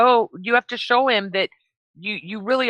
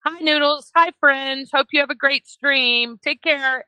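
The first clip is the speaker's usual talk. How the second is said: friendly greeting; 5 semitones higher than usual. Pretend. Models a friendly chat greeting.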